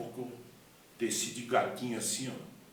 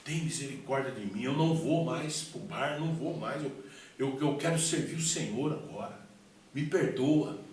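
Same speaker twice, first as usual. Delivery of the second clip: louder, higher begging without real sobs; tearful plea, retold; 3 semitones higher, 4 dB louder than usual. Weeping man begs God for mercy, retold as an urgent plea. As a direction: cry out for mercy, promise after promise. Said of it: "E ali eu chorava, falava".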